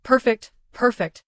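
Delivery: slow, high mimicking echo; mimicking him. A narrator's reading. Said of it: "mimicking him".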